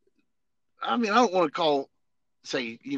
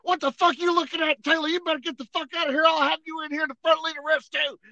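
mock sergeant threat; 9 semitones higher, 3 dB louder than usual. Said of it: "He goes".

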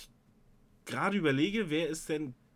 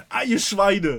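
frustrated outburst; 6 semitones higher, 11 dB louder, slower than usual. Real, not acted.

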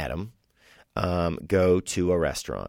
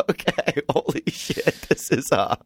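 shocked producers; 9 semitones higher, slower than usual. Retold or imitated.

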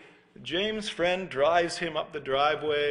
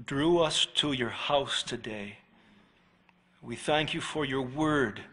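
closing prayer; 3 semitones lower than usual. Real, not acted. Pastor praying for the congregation after the sermon, reverent. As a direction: pray over the congregation reverently.

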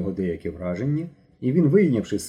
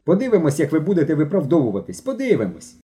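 scolding warning; 5 semitones higher, 3 dB louder than usual. Acted. Mishko ends scolding.

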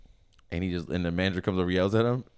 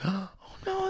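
mock dismay; 11 semitones higher, 6 dB quieter than usual. Acting out worried coworkers reacting.

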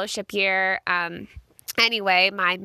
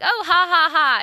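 loud forced "ha ha" to cover embarrassment; a forced fake laugh to hide the pain; 8 semitones higher, 7 dB louder than usual. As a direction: laugh it off loudly, high and forced. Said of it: "and I'm like".

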